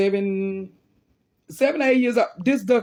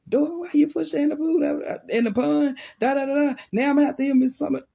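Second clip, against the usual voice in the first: higher-pitched, scolding imitation of a mad sister; mock angry sister; 8 semitones higher than usual. Older sister scolding Dora over the pond, mock angry. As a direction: mimic a big sister telling you off. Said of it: "now my sister mad 'cause she like".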